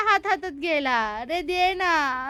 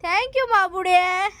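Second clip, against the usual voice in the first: slow tender thanks; 3 semitones higher, slower than usual. Real, not acted.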